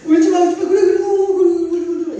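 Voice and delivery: put-on mother hurriedly calming a shrieking baby; frantic baby soothing. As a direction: hurry to hush a wailing baby. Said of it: "이런단 말이에요".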